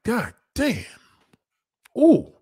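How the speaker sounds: high, drawn-out appreciative groan; mock brother catcalling; admiring catcall. Brothers catcalling a passing woman, excited. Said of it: "Brothers would be like".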